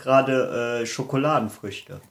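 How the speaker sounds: talking with mouth full; chewing while talking. Real, not acted. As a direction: speak round chocolate fruit. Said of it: "deswegen esse ich gerade".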